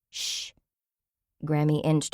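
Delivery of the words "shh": hushing. Acted. Grammy hushing at the door.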